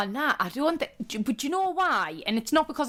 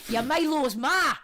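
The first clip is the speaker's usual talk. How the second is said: put-on Geordie accent; 3 semitones higher, slower than usual. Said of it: "they're like".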